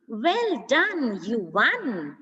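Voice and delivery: bright, lifted cheer; an excited well done. Shown as a demonstration. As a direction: congratulate them with real excitement. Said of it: "There's excitement".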